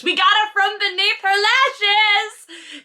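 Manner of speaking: high, slow put-on squeal; mock gushing voice. Reader mocking the phrase from the book, squealing. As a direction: camp it up like a swooning fan.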